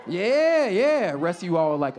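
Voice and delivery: normal talking voice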